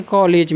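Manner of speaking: कॉलेज as "kaw-lej"; first vowel of कॉलेज between aa and o. Shown as a demonstration. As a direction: open English "aw" in कॉलेज. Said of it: "बीच का जो उच्चारण था".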